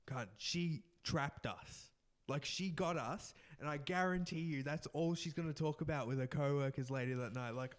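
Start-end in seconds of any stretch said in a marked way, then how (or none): 0.1-1.9 slow rueful realization. Retold or imitated. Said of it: "We were like".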